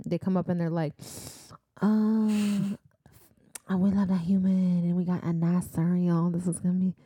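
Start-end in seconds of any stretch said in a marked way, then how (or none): 1.8-6.9 put-on a creature voice sliding into a vague Southern accent; hammed-up hungry monster, drifting Southern; odd southern-ish monster voice. Podcast host voicing hungry Naga, half-hearted Southern monster voice. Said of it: "What accent was that?".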